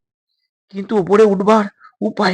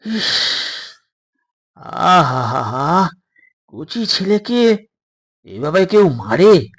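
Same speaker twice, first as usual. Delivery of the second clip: pitying; much slower than usual. Acted. Doctor pities beaten boys.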